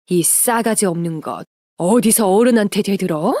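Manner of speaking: mildly voiced furious scolding; an aunt's outburst, acted with restraint; angry yell. A narrator's reading. Aunt slapping her niece for talking back, restrained angry yell. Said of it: "고함을 지르면서 제 뺨을 후려쳤습니다".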